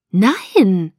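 a loud, firm no; stubborn refusal to back down; determined. Acted. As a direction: refuse flatly and don't budge. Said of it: "Ich war entschlossen, nicht nachzugeben".

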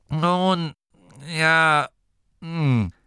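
high, halting hedging; embarrassed. A narrator's reading. Gurda is asked his opinion, embarrassed. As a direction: stall awkwardly, one word at a time. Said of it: "mit einem verlegenen Blick".

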